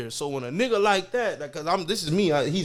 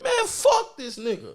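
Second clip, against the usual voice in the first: slow dismissive; 10 semitones higher than usual. Shown as a demonstration. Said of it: "Just like that".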